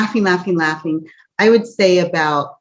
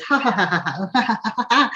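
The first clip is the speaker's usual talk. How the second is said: fake laugh; 3 semitones higher, faster than usual. Shown as a demonstration. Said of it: "It was a fake laugh".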